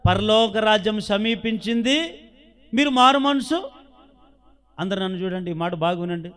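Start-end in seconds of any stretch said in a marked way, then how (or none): 0.1-3.7 proclaiming Jesus' words. Acted. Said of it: "ఏం చెప్పాడు తెలుసా?".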